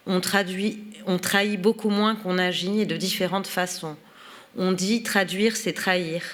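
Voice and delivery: measured, articulate reading of an essay; reading aloud. Acted. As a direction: read the written text out clearly, phrase by phrase. Resumes reading the foreword aloud. (lecture à voix haute, posée et articulée)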